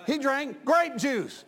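put-on preacher shouting down a drunk's excuse; emphatic shout. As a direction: shout it out slowly, hammering each word. Preacher shouting a retold argument.

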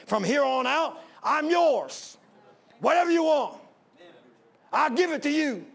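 building from earnest to a high, loud cry of surrender; impassioned prayer. Acted. Preacher voicing a believer's surrender to the Lord, rising to a fervent cry.

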